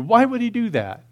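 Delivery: high, loud, re-enacted astonishment; hammed-up disbelief; incredulous. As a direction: ask it like a baffled teenager. Re-enacts his teenage disbelief at gospel.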